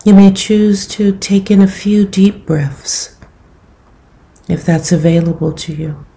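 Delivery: calm, unhurried meditation guidance with long pauses; guided meditation. Acted. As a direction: gently guide them into settling the body, leaving space between phrases.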